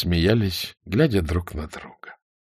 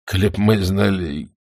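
halting, apologetic elder; lightly voiced old soldier. A narrator's reading. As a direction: plead haltingly, with pauses. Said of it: "сказал пожилой боец". (виновато, с паузами)

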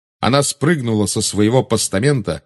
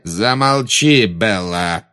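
threatening; much slower than usual. Acted. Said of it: "послышалась угроза".

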